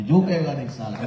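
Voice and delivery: laughing movie line. Retold or imitated. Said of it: "રિયલમાં અહીં ઊભા જો ઇટાલિયા".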